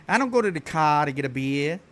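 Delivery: lightly put-on Boston accent. Streamer showing viewers what Boston sounds like, Boston accent. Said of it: "No, Boston".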